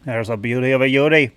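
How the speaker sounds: Aussie accent attempt; Australian accent. Retrying for viewers, Australian accent. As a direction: try the line in an Aussie accent. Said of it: "like my Aussie".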